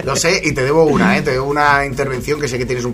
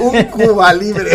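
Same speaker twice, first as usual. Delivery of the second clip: put-on slow old man voice, slightly higher, laughing; a hint of an elderly gent at the bar; 5 semitones higher, much slower than usual. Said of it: "Soy un señor mayor".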